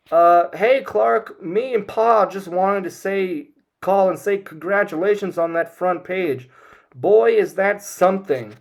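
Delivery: high, loud folksy mom on speakerphone; half-yell it into a phone on the table like a country mom; mother calling loudly into the phone to congratulate her son, high and loud; loud Ma Kent. Retold or imitated. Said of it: "she's talking loudly into it".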